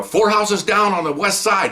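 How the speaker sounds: slow, high loudspeaker call; PA announcement. Retold or imitated. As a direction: call it out over a PA. Helicopter PA directing officers.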